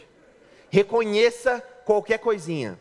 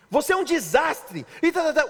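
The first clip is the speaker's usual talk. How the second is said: scolding wife; 8 semitones higher than usual. Retold or imitated. Pastor mimics a wife insulting her husband, higher mock scolding. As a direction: rattle off the insult, mock-nagging. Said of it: "O homem não".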